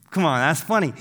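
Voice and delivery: ordinary delivery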